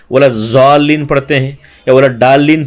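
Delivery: الضالین said with a z, then ڈالین with a hard d; wrong dad. Shown as a demonstration. Teacher imitates students' wrong ways of saying ضاد. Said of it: "یہ جتنے بھی طریقے ہیں یہ غلط ہیں".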